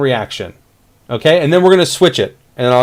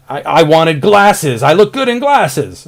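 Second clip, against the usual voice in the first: disappointed whine; 3 semitones higher, slower than usual. Shown as a demonstration. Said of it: "the big emotional reaction".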